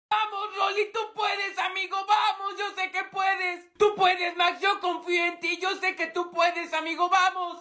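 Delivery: rowdy cheering from the stands, urging a friend on. Acted. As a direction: shout encouragement to a friend. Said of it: "ya se pueden callar".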